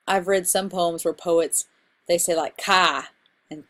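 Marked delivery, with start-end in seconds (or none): 2.6-3.1 "ka" for car, the R dropped in Boston style; Boston "ka" with an open ah and no R; Boston accent. Shown as a demonstration. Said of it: "Boston accent".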